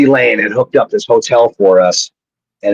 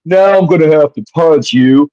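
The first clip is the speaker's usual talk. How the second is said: mock threat; 5 semitones higher than usual. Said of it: "all I can hear is like".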